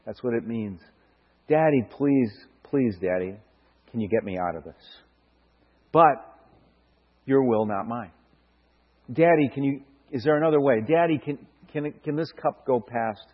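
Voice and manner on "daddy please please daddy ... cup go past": pleading prayer. Acted. Preacher voicing Jesus begging his father. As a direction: plead gently, a touch tearful. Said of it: "crying, begging his own father".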